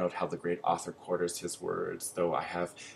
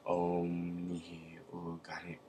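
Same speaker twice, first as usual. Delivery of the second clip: slow, grunting hiss of a tongue-tied man; hissed and grunted; slower than usual. A narrator's reading. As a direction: force the strange words out slowly through a tied tongue. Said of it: "hissed and grunted the tongue-tied one".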